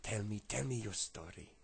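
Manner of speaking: put-on light French-accented coaxing; rough French accent. Homeless man asks for the story, light French accent. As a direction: coax him with a touch of French. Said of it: "I can't do a brilliant French accent".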